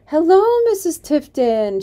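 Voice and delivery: high, loud, forced cheery greeting; girl caught out, greeting the angry woman with bravado; desperate bravado. Acted. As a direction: bluff it out brightly, too loud. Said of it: "in a desperate display of bravado".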